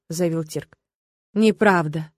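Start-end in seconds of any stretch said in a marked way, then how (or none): none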